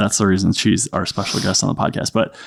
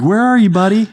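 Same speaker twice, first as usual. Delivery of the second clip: raised, sing-song parent pitch; dad calling down; 10 semitones higher, 3 dB louder than usual. Retold or imitated. Dad upstairs searching for his little son, high calling voice. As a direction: call out high to a small child.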